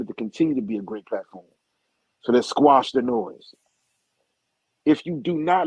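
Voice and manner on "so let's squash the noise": higher, louder and slow, laying down the law; firm, slow command to end the drama; aggressive, forceful. Real, not acted. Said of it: "if I sound too aggressive".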